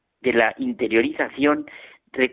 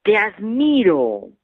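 slow, higher, louder call across the mountains; father shouting praise into the mountains; shouted call; 6 semitones higher, 4 dB louder, slower than usual. Retold or imitated. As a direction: call out with admiration. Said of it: "gritó".

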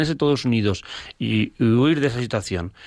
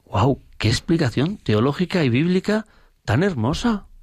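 amazed wow; 6 semitones higher than usual. Retold or imitated. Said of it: "Yo me quedé y dije".

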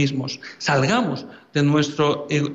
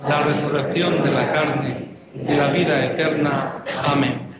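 prayer recitation. Acted.

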